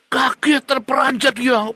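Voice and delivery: high, loud alarmed telling; alarmed narration. Acted. Preacher describing the startled child, high and loud. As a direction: raise the alarm in the voice. Child witnessing father's violence.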